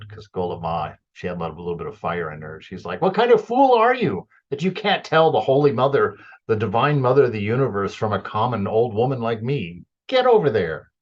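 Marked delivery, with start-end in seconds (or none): 3.0-10.9 loud, higher, exasperated telling-off; fiery scolding. Retold or imitated. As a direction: scold the fool who can't tell who's who. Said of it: "Golap Ma just really lets her have it".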